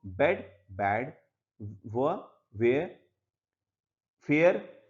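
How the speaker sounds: word-by-word drill, pausing between look-alikes like बेड, बैड; contrasting pronunciation. Shown as a demonstration. Teacher modelling word pairs for students to repeat, careful contrast of बेड and बैड, फिल and फील. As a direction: say each word in isolation, vowels distinct as in फिल, फील. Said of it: "इनके pronunciation भी अलग है".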